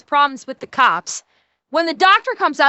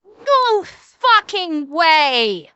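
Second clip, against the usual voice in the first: shocked disbelief; 2 semitones higher, 4 dB louder, much slower than usual. Real, not acted. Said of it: "shocked outburst".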